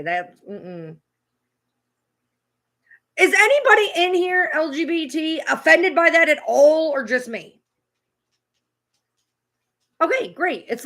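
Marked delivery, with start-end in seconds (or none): 3.2-7.6 loud indignant question to chat. Real, not acted. Streamer asking his chat, loud and indignant. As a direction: demand an answer from chat.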